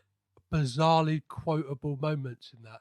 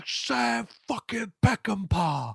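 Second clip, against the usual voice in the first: quoting Cage's line; 5 semitones higher, slower than usual. Retold or imitated. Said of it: "he's like".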